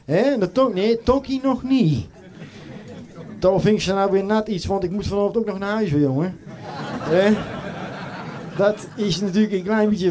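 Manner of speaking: a comic Brabant doorman telling tales; doorman character. Acted. Carnival comedian as doorman Piet telling the crowd his tales. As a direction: play the chatty doorman at carnival.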